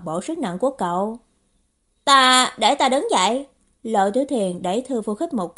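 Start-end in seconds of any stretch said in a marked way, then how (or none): 2.0-3.5 louder, higher, faltering start; flustered. Acted. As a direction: blurt it out, flustered. Bối rối muốn thoát vòng tay. (bối rối, cao giọng)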